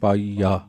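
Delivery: ਪਾਈਆ with an open final ਆ, no nasal; without nasal. Shown as a demonstration. Teacher showing the sangat ਪਾਈਆ without a nasal ending. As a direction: say ਪਾਈਆ plainly, no bindi sound. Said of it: "ਪਾਈਆਂ ਪਾਠ ਨਹੀਂ ਕਰਾਂਗੇ".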